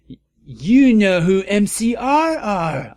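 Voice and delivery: high, loud astonished gasp of words. A narrator's reading. Heroine gasps at Dumbledore, high and loud. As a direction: blurt it out in shock. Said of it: "I gasped".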